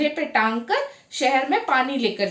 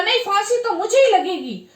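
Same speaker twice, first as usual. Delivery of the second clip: higher-pitched counter-claim; insistent; 5 semitones higher than usual. Acted. Disciple argues back to be hanged first, insistent.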